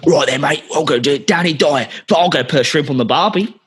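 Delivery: mock Aussie with botched Cockney; Australian accent. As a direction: imitate an actor in a hammed-up Australian accent. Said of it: "I'll just do Australian".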